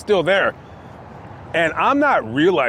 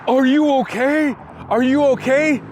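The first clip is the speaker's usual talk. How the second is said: high, worried voice of the woman; imitating the woman; 9 semitones higher than usual. The woman asking the fallen rider, high and worried. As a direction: voice her concern, pitched up. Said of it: "She's like".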